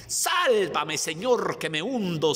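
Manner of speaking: sudden high, loud scream for help; drowning cry. Acted. Preacher voicing Peter sinking in the sea, desperate high shout. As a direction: cry out as if going under the waves. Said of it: "empieza a hundirse".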